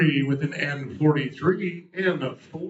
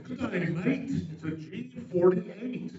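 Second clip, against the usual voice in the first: higher, half-hearted Australian accent; bad Australian accent; 5 semitones higher, 5 dB quieter than usual. Shown as a demonstration. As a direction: attempt a light Aussie accent, badly. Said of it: "Can't do an Australian accent".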